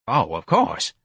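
meek, placating office manager; timid little agreement. A narrator's reading. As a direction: back down meekly. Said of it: "Mister Gonzalez said meekly".

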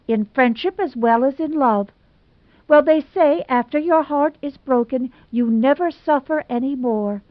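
dramatic Hazel. Acted. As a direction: overplay the wounded romantic heroine. Hazel's tragic self-pity.

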